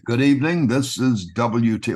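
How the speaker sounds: lightly hammed newsman read; radio voice. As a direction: put on the announcer voice. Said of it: "I was using my radio voice".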